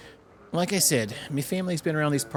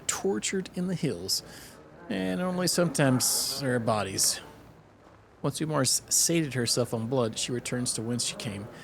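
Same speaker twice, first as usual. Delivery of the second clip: slow, spooky tale voice; ominous storytelling; slower than usual. Acted. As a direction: draw out the horror.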